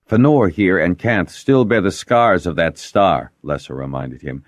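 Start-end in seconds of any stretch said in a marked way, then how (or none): 0.1-3.3 indignant. A narrator's reading. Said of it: "indignant at having the Weirs criticized".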